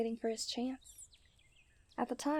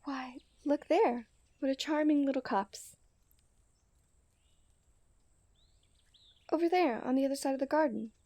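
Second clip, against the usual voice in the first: mock-surprised discovery; 3 semitones higher, 5 dB louder than usual. Feigned discovery of the copse.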